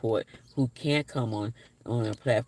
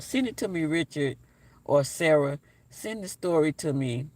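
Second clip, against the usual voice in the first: eager call; 5 semitones higher than usual. Real, not acted. Calling out to commenters.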